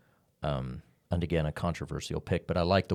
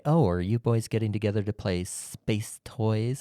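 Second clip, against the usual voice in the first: annoying teasing wife; 3 semitones higher than usual. Retold or imitated. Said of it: "very annoyingly".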